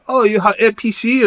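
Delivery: high, put-on voice of the visitors; mock Russian surprise. Russian filmmakers asking Dan, high mock surprise. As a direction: imitate their eager surprise. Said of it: "They're like".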